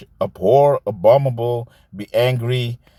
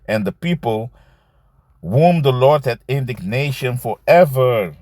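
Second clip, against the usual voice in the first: scripture reading. Acted. Reads Malachi aloud.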